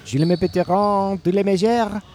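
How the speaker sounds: mock French gibberish; hammed-up fake French. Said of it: "fake French garbage".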